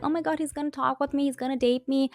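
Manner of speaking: mock-giddy Avery; excited gushing girl. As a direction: gush like a lovestruck teen. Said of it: "She's like".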